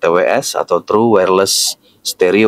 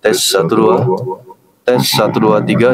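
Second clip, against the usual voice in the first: monster voice. Shown as a demonstration. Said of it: "Ini suara monster".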